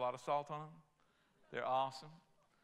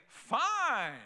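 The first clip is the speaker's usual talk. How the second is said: a short "Fine", a bit higher, falling; God conceding; 6 semitones higher, 4 dB louder than usual. Retold or imitated. God answering a stubborn person who says "mine", curt. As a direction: give in with one curt word. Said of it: "God will say".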